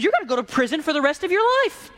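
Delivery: angry king. Retold or imitated. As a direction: hand down the punishment in anger. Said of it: "He was mad".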